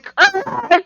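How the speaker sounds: high-pitched creature noise; creature revival noise. Acted. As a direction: imitate a monster jolting back to life. Acts out creature coming back alive.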